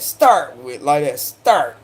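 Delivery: South Carolina start. Retold or imitated. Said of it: "he says it just like that".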